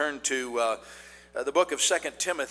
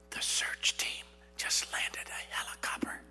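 slow voiceless whisper; child's whisper; 4 dB quieter than usual. A narrator's reading. Hiding child tells the boss in a whisper. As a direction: whisper it slowly, keeping a secret. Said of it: "the whispering child answered".

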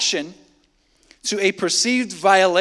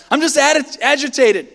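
higher, pinched mock excuse; a higher, mock-agitated excuse; 6 semitones higher, 4 dB louder than usual. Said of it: "ways we excuse our anger".

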